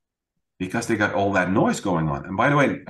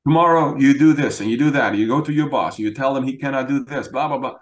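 louder and higher, rattling off orders; bury her in eager advice; flood of advice; 5 semitones higher, 4 dB louder than usual. Retold or imitated. Husband imitating himself lecturing his wife, rapid advice. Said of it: "a tsunami of advice".

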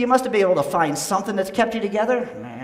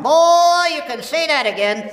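squeaky ventriloquist dummy; 4 semitones higher, 5 dB louder than usual. Acted. Old dummy quips to host.

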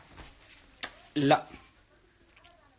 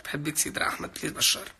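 quick whispered repeat of the comment; 4 dB quieter, faster than usual. Shown as a demonstration. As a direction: whisper the fan's comment back fast. (همس سريع)

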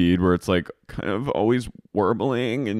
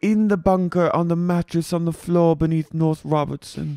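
put-on boss; 8 semitones higher than usual. Boss bragging about bartender, high mock pride. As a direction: proclaim it in a raised voice.

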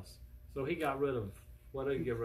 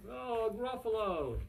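high, loud cry, drawn out at the end; storybook panic; 8 semitones higher, 6 dB louder, slower than usual. Acted. Mouse suddenly sees the Gruffalo, storybook panic. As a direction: wail in hammed-up alarm.

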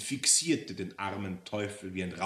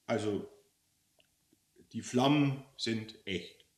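mildly hurt, deflated protest; a touch of wounded sadness; understated, dejected correction; sad devil; 2 semitones higher than usual. Acted. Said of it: "sagte der Teufel traurig".

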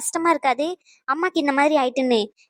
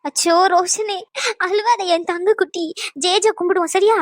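tender soothing. Acted. Mother comforts crying son.

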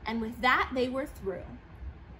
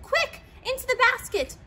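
very high, urgent call; urgent excitement; 11 semitones higher, 4 dB louder than usual. A narrator's reading. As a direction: hurry them aboard. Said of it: "Clorinda said".

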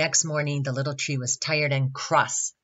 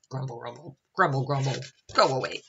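grumbling; faster than usual. Shown as a demonstration. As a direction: show a child how to grumble. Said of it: "Can you grumble?".

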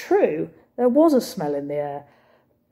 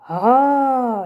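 put-on French accent; 7 semitones higher, 5 dB louder than usual. Cafe owner, French accent.

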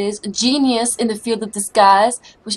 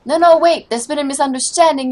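higher and louder, hurried begging; panicked plea; 4 semitones higher, 5 dB louder than usual. Acted. Caught impostor begging the guards, panicked plea. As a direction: plead as the guards close in.

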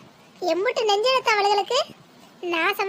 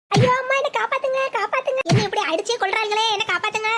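பயந்து கத்துவது. Acted. Beaten girl cries for help.

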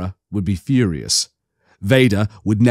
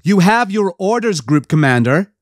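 higher, firm and final; cutting him off; 7 semitones higher than usual. Acted. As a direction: shut down the protest. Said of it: "she cut off the protest".

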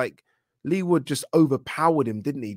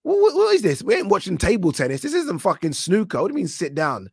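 loud, much higher, incredulous mock-shouting; outraged yell; 7 semitones higher, 6 dB louder than usual. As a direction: blow up at security in hammed-up outrage. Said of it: "I'm like".

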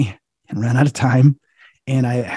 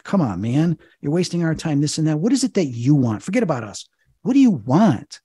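higher, pressing exasperation; retold impatient challenge; 4 semitones higher than usual. Exorcist tired of the demon's lies, impatient challenge. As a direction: press for an answer, pitch climbing.

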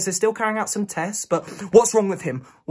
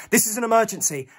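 higher, pressing protest; urgent insistence; 5 semitones higher than usual. Acted. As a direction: insist that it cannot wait. Pleads urgently at hospital desk.

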